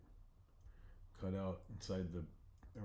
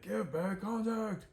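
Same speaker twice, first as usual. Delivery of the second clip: high, slow, louder plea; dopey bear; 12 semitones higher, 6 dB louder, slower than usual. Acted. The bear asks Bodhi for the contact, high and slow. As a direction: drag it out like a dim bear.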